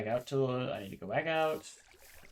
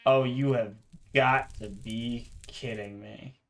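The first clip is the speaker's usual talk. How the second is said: exasperated disbelief; 4 dB louder, slower than usual. Real, not acted. Jump scare in horror game.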